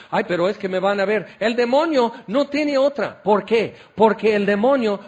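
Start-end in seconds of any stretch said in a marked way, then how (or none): 0.1-1.3 rushed, mock-worried protest; mock excuse. Preacher mimicking churchgoers afraid to be seen kneeling, mock fretful. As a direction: toss it out quickly like a feeble excuse.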